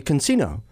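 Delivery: "casino" with an added N; girlfriend's mispronunciation. Retold or imitated. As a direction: say "casino" as con-SEE-no. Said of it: "She'd say casino".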